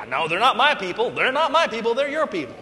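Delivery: laughing mock protest; hot potato banter. Preacher recalls Moses and God playing hot potato, laughing. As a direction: toss them back with a laugh. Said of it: "playing hot potato with you".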